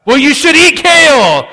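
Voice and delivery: high, loud scolding put-on; a preachy know-it-all scolds about kale; mock judgmental voice. A pastor mimics a judgmental busybody in a high, loud scold.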